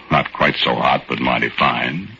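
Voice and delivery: normal talking voice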